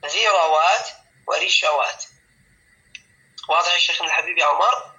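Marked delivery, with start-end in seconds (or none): 0.1-2.0 ذروات ورشوات with a after r: dhirawat, rishawat; fatha form. Shown as a demonstration. Teacher showing the other allowed plural. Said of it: "نقول".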